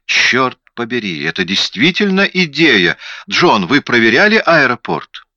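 high-pitched, excited realisation; animated. A narrator's reading. Detective pursues the airport idea with his colleague, animated. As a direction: perk up with rising excitement and lifted pitch. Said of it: "Он заметно оживился".

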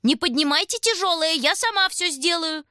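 high, loud sugary call on сама. A narrator's reading. Aunt Vera calls from the kitchen, high and loud. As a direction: shout sweetly from the next room.

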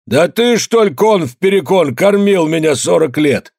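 furious peasant roaring at the official; roaring in anger. A narrator's reading. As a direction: roar it out at the table. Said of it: "заревел Калистрат".

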